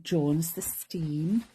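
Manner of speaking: slow, lightly put-on Welsh accent; a hint of a Welsh valleys voice, drawn out. Crafter tries a Welsh accent for Jones, slowly. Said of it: "try to do a Welsh accent".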